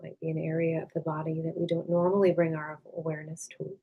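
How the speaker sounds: calm, unhurried meditation voice with long pauses; guided meditation. Acted. Meditation teacher leading listeners to release tension, calm and unhurried. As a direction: gently guide them inward, leaving space after each phrase.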